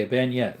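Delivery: bayonet said "ban-yet", French-sounding; own pronunciation. Shown as a demonstration. Streamer defending how he says it, bayonet as "ban-yet". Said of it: "That's how I say it".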